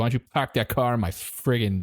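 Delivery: Boston flirty line; Boston accent. Pretend. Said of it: "someone talking like this".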